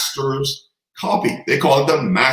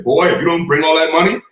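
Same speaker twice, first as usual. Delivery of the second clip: threatening father; 4 semitones higher, 4 dB louder than usual. Retold or imitated. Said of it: "He turned around, he said".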